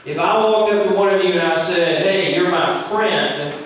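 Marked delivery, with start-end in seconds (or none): 2.1-3.5 slow, sincere and friendly. Shown as a demonstration. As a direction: say it so they believe you. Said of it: "and I say it like this, you're gonna believe me".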